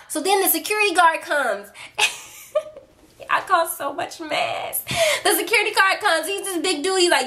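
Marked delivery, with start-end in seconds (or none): 2.0-4.8 giggling through the words; laughing. Real, not acted. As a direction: laugh while admitting it. Laughing at own story.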